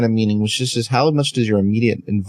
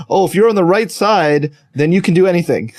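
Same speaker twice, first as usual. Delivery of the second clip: higher, smug mock voice; smug self-righteousness; 6 semitones higher than usual. Mimicking people who think being on the right side excuses anything, smug and higher. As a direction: play the complacent righteous one, lightly. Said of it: "people act as though, like".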